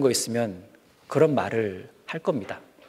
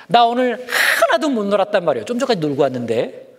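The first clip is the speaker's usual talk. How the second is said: whiny fib; 7 semitones higher, 4 dB louder than usual. Acted. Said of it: "부모님이 공부하라고 하니까".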